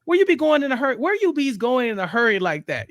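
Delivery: high, loud caricature of a book's dialect; exaggerated AAVE dialect quote. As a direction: read it like an over-the-top urban novel voice. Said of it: "very specific type of dialect".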